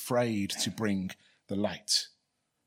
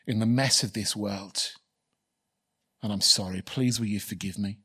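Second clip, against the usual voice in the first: prayer. Real, not acted. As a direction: pray it humbly to the Father. Leads closing prayer.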